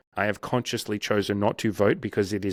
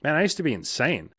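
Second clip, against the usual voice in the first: amused. Retold or imitated. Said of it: "You're like".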